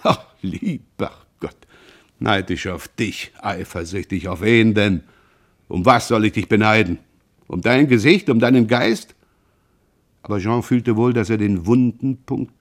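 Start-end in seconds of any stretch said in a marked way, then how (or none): 0.0-9.1 contemptuous. Acted. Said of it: "kreischendes Lachen, voll von Tadel und Verachtung".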